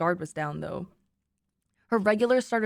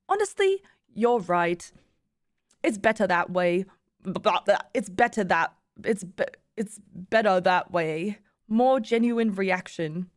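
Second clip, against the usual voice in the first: attempted German accent. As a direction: fumble through an amateur German accent. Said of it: "I can't do a German accent".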